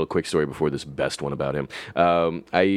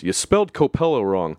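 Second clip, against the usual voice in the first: deadpan; 3 semitones higher than usual. Retold or imitated. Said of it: "just the straightest act".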